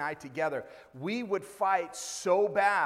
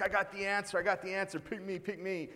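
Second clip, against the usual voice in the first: put-on higher-pitched eager kid begging to be picked; excited boy imitated; 4 semitones higher than usual. Boy begging the pastor to pick him, imitated excited. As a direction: play a keen little boy, pitched up. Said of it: "he's all excited".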